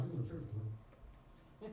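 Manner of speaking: low, slow motherly order; a hint of a stern mother; stern mama. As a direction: lay down the law like mama. Mama ordering him to church.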